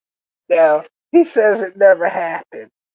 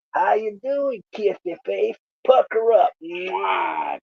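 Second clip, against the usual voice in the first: soft, lilting mock flirtation; teasing coo; 3 dB quieter, slower than usual. Bernie teases his coworker about kissing, mock-flirty coo. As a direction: coo it teasingly, ending on a smacked kiss.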